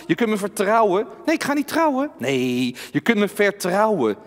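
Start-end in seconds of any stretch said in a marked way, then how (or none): 1.2-2.1 talking doll. Acted. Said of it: "Henk is mijn pratende pop".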